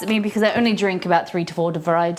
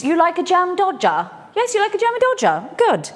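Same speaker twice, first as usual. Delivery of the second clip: put-on pet baby talk; 7 semitones higher than usual. Talking to a pet.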